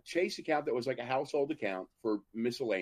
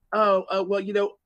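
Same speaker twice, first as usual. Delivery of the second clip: higher, louder flustered mock clerk; 9 semitones higher, 6 dB louder than usual. Teller mimics flustered bank clerk, higher and louder. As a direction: imitate the clerk caught off guard.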